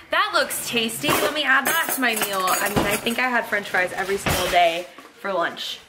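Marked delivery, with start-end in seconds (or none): 0.1-2.5 high, bright "oh, that looks good"; excited inner voice. Retold or imitated. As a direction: gush over the buffet food. Voicing herself at the buffet.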